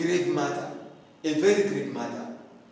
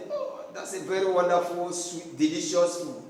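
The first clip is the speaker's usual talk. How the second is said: sarcastic praise; 5 dB quieter than usual. Pretend. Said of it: "You are being ironic".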